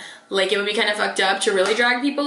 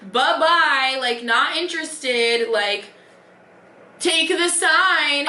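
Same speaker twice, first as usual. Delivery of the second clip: imagined blunt brush-off; 3 semitones higher, slower than usual. Retold or imitated. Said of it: "everything in me wanted to be like".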